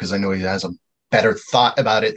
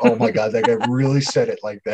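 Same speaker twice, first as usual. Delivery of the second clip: plain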